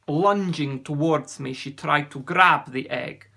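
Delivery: put-on accented storyteller, building with the struggle; sea serpent recounting. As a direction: recount the loss in a lightly voiced foreign accent. Ossian tells his story.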